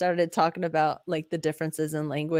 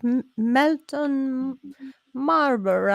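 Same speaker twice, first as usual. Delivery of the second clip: drawn-out, higher-pitched country twang; country Texan accent; 6 semitones higher, slower than usual. Retold or imitated. Mocking the hard-to-understand town name in a country accent. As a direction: stretch it slowly like a Texas country person. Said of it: "I'm saying it like a country person".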